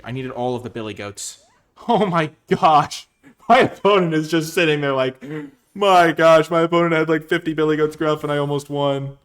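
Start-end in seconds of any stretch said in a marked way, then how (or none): 1.9-9.2 loud, high, laughing disbelief; excited laughing relief. Real, not acted. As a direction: burst out laughing and shout the relief. Gleeful after narrow win.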